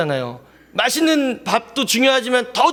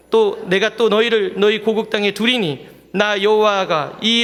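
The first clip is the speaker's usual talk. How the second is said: scripture reading. Acted. 목사가 회중과 함께 에스겔서를 읽으며, 엄숙한 낭독. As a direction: read it out with weight.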